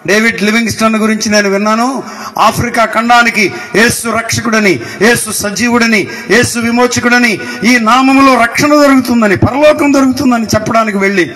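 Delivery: building, urgent sermon cadence; fervent preaching. Real, not acted. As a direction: pile up the phrases with rising zeal. Preaches with rising fervour.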